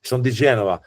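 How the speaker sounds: Genoese Italian like Portuguese; Genoese accent. Shown as a demonstration. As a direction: lilt it like a Genoese who sounds Portuguese. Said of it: "like the Portuguese".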